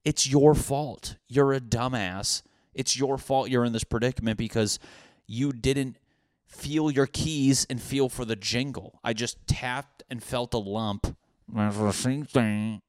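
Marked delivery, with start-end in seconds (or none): 0.1-9.0 self-scolding. Retold or imitated. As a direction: berate yourself for being dumb. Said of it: "I'm like".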